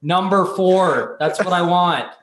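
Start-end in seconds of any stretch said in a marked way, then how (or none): 0.0-1.2 slow drawn-out announcer call. Retold or imitated. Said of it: "at the racetrack and they're like".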